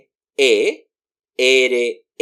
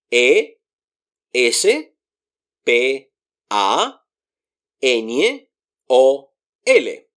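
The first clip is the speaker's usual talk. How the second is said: ordinary delivery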